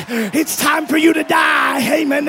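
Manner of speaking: shouting. Shown as a demonstration. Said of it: "begin to shout".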